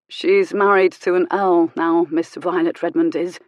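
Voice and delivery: slow, pointed gossip; old lady gossip. Acted. Old lady tells the reverend of the earl, slow and pointed. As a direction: drag it out, savouring it.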